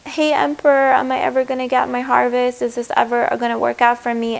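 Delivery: card begs the Emperor for reassurance, hopeful plea; pleading card. Retold or imitated. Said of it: "saying, like".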